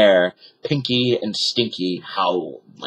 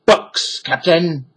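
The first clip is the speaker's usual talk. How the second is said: Pinky calling down; 7 semitones higher, slower than usual. A narrator's reading. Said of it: "Pinky shouted down".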